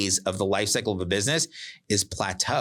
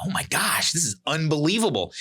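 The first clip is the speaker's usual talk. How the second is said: higher, amazed retold gush; mock wide-eyed delight at a coffee milkshake; excited; 6 semitones higher than usual. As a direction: gush over the first sip like it's a revelation. First taste of the Frappuccino.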